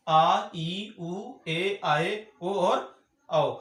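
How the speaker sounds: each vowel stretched very slowly; drawn-out vowels. Shown as a demonstration. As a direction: draw out ओ and औ slowly. Teacher listing long vowels. (स्वरों को बहुत धीरे खींचकर)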